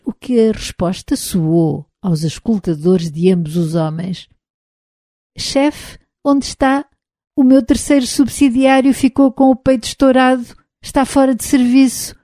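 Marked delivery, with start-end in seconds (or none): 5.4-12.2 higher, lightly robotic voice; a robot reporting over the radio. Acted. Robot Dave answers over transmitter. (voz de robô)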